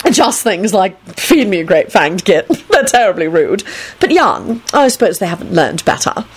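affected, indulgent chatter; lightly voiced effeminate vampire. Antonin excusing the rude dragons, affectedly indulgent. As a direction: chat fondly with a touch of camp.

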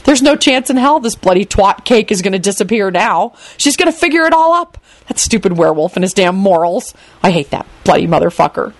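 mildly panicked, exasperated thoughts; frantic inner rant. Acted. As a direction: rant inwardly, pitch jumping in panic. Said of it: "Quentin thought frantically".

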